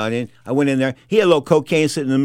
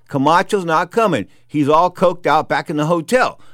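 slow, deliberate bad-news report; Harold's blunt delivery; slower than usual. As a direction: spell out the bad news slowly. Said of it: "just the way Harold put it".

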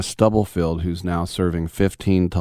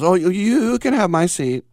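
a light, higher, timid voice, just lightly put on; lightly voiced meek office guy offering his chair; meek coworker; 12 semitones higher than usual. Retelling how a timid coworker gave up his seat, lightly voiced meek.

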